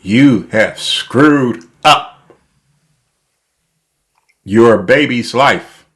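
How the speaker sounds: slow, even robot voice. Acted. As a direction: spell it out like a robot. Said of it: "I'm talking like a robot".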